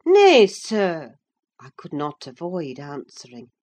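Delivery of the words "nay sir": higher, louder protest; a pleading servant's firm nay; firm objection. Acted. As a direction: stand up to the master. Nelly pleads for Heathcliff.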